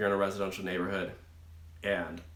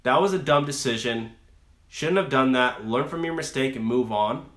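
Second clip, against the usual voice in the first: blunt rebuke; 3 dB louder than usual. Retold or imitated. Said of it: "if you want somebody to say".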